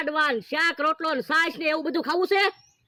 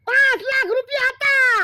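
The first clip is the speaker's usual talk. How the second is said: higher, louder comic sobbing; hammed-up crying; 7 semitones higher, 4 dB louder than usual. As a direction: blubber out the loss. Crying over burnt cash.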